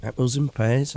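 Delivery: light put-on Cockney accent with a rising lilt. Streamer teases his viewers with the slang in mock Cockney. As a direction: tease the chat in a jokey Cockney voice. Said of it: "It's Cockney slang".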